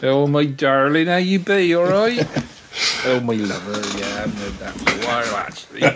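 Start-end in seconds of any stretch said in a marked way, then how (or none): 0.0-3.7 put-on West Country accent. Demonstrating the cod accents characters use, in a West Country accent. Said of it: "they've all got West Country accents".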